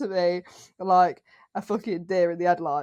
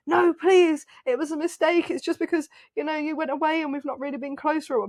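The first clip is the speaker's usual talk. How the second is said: begging ex; 6 semitones higher than usual. Retold or imitated. Ex chasing her, begging.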